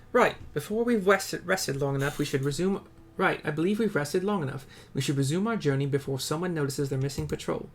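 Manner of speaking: a lightly voiced companion urging them on; NPC companion. Companion telling the hero to move before discovery, lightly voiced. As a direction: say it like a steady fellow traveller. Reads NPC dialogue aloud.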